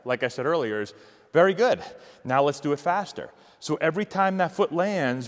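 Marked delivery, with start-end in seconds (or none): 1.3-3.3 coach praise. Shown as a demonstration. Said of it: "what I would say to him there".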